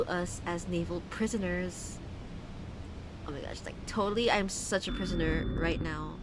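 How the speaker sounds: lightly put-on Valley Girl accent reading. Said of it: "start reading Dagon with a Valley Girl accent".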